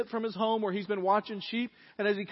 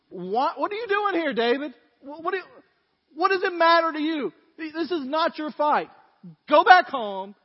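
put-on angry older brother; 3 semitones higher, 4 dB louder than usual. Older brother telling off his younger brother at the battlefield, angry and scornful. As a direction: berate a kid brother in exasperated outbursts. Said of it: "he is mad".

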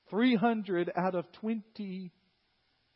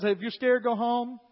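louder announcement to the whole army; calling out to troops; 4 semitones higher, 6 dB louder than usual. Acted. Gideon calling out to his troops, loud announcement. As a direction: call it out across the camp.

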